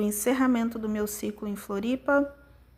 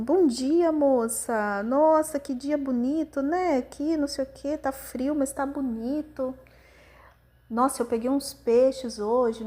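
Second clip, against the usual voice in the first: lightly voiced cheerful fisherman, higher and louder; chatty fisherman; 4 semitones higher, 4 dB louder than usual. A fisherman greets a crying stranger at the pier, bright chatty voice. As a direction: play up a friendly old fisherman striking up small talk. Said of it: "E aí ele fez assim".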